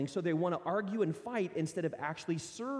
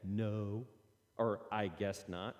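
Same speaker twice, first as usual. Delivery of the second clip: put-on sulky kid; 6 semitones lower, much slower than usual. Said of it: "don't let them get away with".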